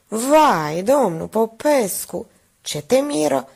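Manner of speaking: a touch of shocked exclaim; consternated exclaim. Acted. Minerva to the pharmacist, mildly consternated exclaim. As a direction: gasp it out, mildly scandalized. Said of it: "exclamă consternată".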